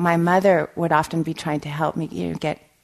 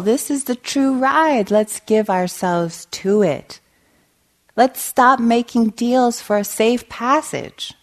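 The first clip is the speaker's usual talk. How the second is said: higher, deliberate recital; poem reading; 6 semitones higher, 4 dB louder than usual. A narrator's reading. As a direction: read it out slowly, line by line. Reads a poem aloud.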